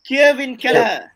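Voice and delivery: "Kevin Kelleher" presented as the proper Irish name; Irish name pronunciation. Shown as a demonstration. Host teaching fans the keeper's name, "Kevin Kelleher" in demonstrated pronunciation. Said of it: "his name is supposed to be pronounced".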